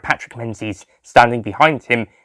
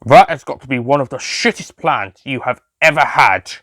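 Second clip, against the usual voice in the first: sarcastic; 3 semitones higher than usual. Acted. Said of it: "clapped his hands sarcastically".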